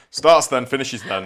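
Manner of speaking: loud laugh into words. Real, not acted. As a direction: burst out laughing while talking. Laughing at doctor's definition.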